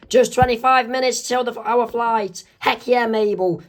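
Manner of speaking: excited. Acted. Wendy excited about flight.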